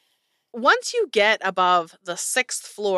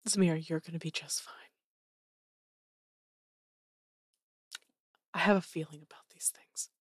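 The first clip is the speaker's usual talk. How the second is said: soft, low reassuring voice; gentle NPC voice; 3 semitones lower, 10 dB quieter, faster than usual. Acted. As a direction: tenderly reassure her, hushed.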